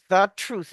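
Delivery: "the truth" with each TH clearly made; tongue between the teeth at both ends of "the truth"; both TH sounds articulated. Shown as a demonstration. Teacher repeating a hard example, "the truth" carefully articulated. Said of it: "you're saying two T H's".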